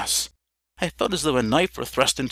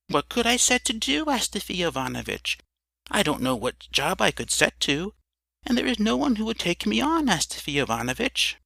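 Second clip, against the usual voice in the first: higher, meek pleading voice; lightly voiced Emelyan, higher and helpless; timid drunkard Emelyan; 7 semitones higher than usual. A narrator's reading. Emelyan answers the narrator.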